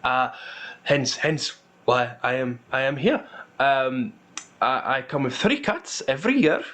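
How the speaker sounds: lightly voiced, halting old merchant; a touch of nerves, with a small chuckle; nervous old dwarf. Dwarf explains his small trade to the guard, mildly nervous and halting. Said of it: "he appears to be nervous".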